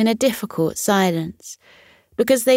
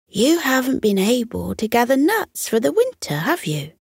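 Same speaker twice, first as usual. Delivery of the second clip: higher, coaxing fox voice; gently probing fox; 5 semitones higher than usual. Acted. Fox gently asking the squirrel about his winter nuts. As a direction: ease in with a leading question. Blaze speaks.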